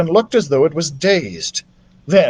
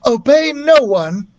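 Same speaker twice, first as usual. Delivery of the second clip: put-on solemn girl voice; 7 semitones higher than usual. A narrator's reading. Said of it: "said Beatrice".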